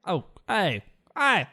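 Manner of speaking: hunting for an Australian accent, rising pitch; attempted Australian accent. Shown as a demonstration. Host searching for the voice on request, attempted Australian accent. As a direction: try out an Australian accent on short calls. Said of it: "what's Australian?".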